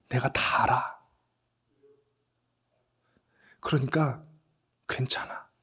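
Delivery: forgive him gently, almost in a whisper; tender Jesus. Retold or imitated. Jesus comforting Peter with a tender, soft voice. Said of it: "인자한 눈길로".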